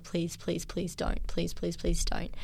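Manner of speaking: hushed, breaking plea, half whispered; tearful pleading. Retold or imitated. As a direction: beg softly through tears. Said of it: "I just started crying".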